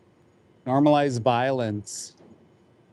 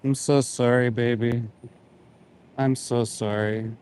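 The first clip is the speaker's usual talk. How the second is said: gentle, sorrowful words to the animal; tender apology. Real, not acted. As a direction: soothe a frightened animal.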